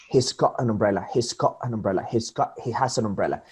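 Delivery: "got an umbrella" run together with no spaces; fuse the words into "go-ta-numbrella"; connected, flowing "He's got an umbrella"; linked sounds. Shown as a demonstration. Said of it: "it's like linking them, fusioning them".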